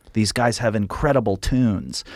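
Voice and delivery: a light hint of a Scottish accent on tunes. Alan McGee pitching the band with a mild Scottish accent. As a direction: pitch it like a Scottish label boss, barely voiced. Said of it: "saying it with the Scottish accent".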